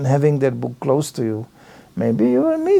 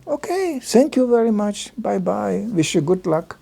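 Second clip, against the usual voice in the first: light polite goodbye; 4 semitones higher, 4 dB quieter than usual. Retold or imitated. Politely ending a street conversation.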